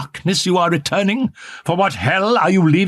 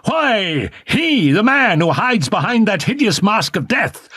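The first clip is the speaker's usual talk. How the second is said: raised, higher angry voice, building; angry jealous outburst; 5 semitones higher than usual. A narrator's reading. Jealous lover confronting her in the box, angry. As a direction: lash out in jealous rage. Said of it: "he repeated angrily".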